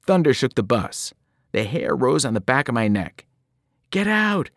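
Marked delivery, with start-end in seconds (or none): 3.9-4.5 high, urgent shout; urgent yell. A narrator's reading. Annabeth ordering Percy off the bus, high urgent yell. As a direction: order him out fast. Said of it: "Annabeth yelled at me".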